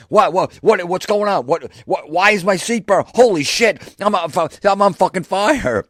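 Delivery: very high, loud, stammering panic; frantic shouting. Retold or imitated. Boss discovering his seat is burning, frantic high shouting. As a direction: shriek it out in repeated bursts, completely alarmed. Boss's seat on fire, retold.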